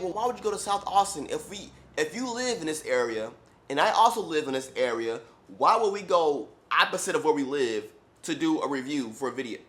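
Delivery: mock exasperated rant. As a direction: push back in disbelief. Exasperated reply to client.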